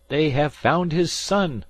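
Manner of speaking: high and loud, overcome; joyful cry. A narrator's reading. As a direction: cry out the good news. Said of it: "cried Penn".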